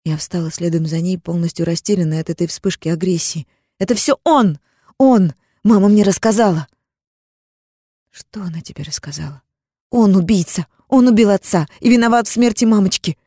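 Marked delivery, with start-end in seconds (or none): 3.8-6.7 high, loud accusing cry; angry outburst. Acted. Furious girl accuses her sister's husband, loud shouting. 8.1-9.4 whispered, barely breathing; stunned whisper. Acted. Zara stunned by her sister's accusation, whispering. Shocked reply to outburst. 9.9-13.2 high, loud tearful cry. Acted. Girl cries out that he killed her parents, loud sobbing cry. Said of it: "заплакала девочка".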